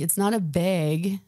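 put-on bag in a thick Minnesota accent, drawn out. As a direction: say "bag" with a Minnesota vowel, like "bayg". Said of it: "I had a horrible Minnesota accent".

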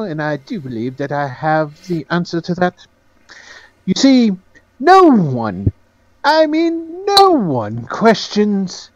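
lightly voiced confident fixer; Penholt. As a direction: reveal the plan with drawn-out emphasis. Game master plays Penholt.

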